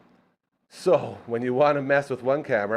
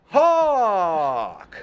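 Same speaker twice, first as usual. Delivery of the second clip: hype shout; 6 semitones higher, 4 dB louder than usual. Acted. Calling out a guest's name.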